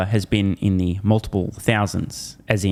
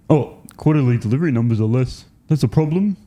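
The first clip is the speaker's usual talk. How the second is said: mocking dumb anchor. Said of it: "They sound like morons".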